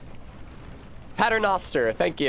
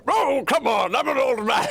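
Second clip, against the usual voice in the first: put-on higher, complaining old man voice; whiny old wizard; 9 semitones higher than usual. Streamer voicing Gandalf whining to the guard, higher and complaining. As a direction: play the frail card indignantly. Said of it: "Gandalf goes".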